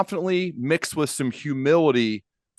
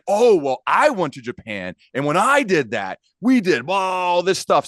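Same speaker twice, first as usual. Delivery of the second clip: bragging one-upper; 7 semitones higher, 5 dB louder than usual. Retold or imitated. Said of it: "We don't wanna be the one-upper".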